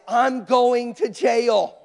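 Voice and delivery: slow, drawn-out comic alarm; loud, drawling realization of trouble; comic dread. Retold or imitated. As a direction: stretch each word out in mock doom. Dreading blame for airport chaos.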